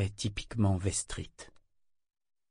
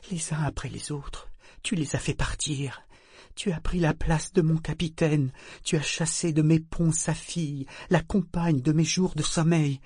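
hateful curse; 5 semitones higher than usual. Acted. Figurehead cursing Kyle for driving everyone away, hateful. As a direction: lay the curse on him word by word. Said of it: "d'une voix basse et pleine de haine".

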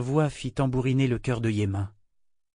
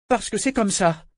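pitiful; 9 semitones higher than usual. A narrator's reading. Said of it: "conclut-il piteusement".

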